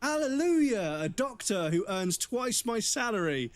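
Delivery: high, drawn-out mock hallelujah; sarcastic rejoicing. Patient mock-praising a doctor who learned to read, sarcastic. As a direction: proclaim it slowly like a miracle, dripping with sarcasm.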